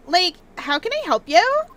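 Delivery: put-on breezy Valley Girl lilt; Valley Girl accent. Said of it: "do a Valley Girl accent".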